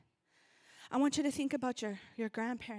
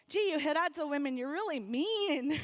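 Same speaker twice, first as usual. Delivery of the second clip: teasing locals; 3 semitones higher, 6 dB louder than usual. Retold or imitated. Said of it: "people say".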